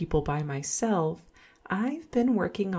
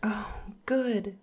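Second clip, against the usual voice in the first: whispering; 2 semitones higher than usual. Acted. Returns, victim drugged.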